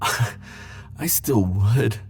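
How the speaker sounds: tender. Acted. Tender admission.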